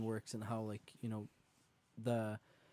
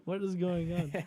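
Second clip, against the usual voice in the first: high, raised disbelief; incredulous; 7 semitones higher, 4 dB louder than usual. Retold or imitated. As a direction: throw up your hands in disbelief. Disbelief at bear on island.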